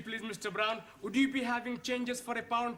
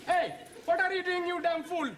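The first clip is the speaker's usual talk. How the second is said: angry; 5 semitones higher than usual. Acted. Quarrel over slot winnings.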